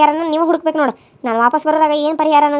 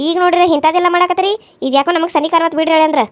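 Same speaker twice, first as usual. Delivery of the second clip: mild angry reproach; mother-in-law scolding the groom. Acted. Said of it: "ಯಾಕ್ರಿ ಅತ್ತಿ ಇಷ್ಟು ಸಿಟ್ಟು ಮಾಡ್ಕೊಂಡ್ರಿ?".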